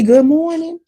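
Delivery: high, bright good morning; bright greeting. Shown as a demonstration. Customer greeting a barista, bright and lifted. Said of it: "when I say".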